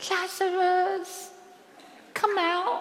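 whispered voice. Showing how the call to Lazarus was not made: whispering. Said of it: "not a whisper. He didn't go".

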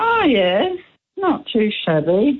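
voice shoots up very high. Reacting to the answer hydrangeas in a favourite-flower quiz, voice jumping up high. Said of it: "Why did your voice go up three octaves".

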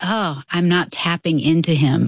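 ordinary talk

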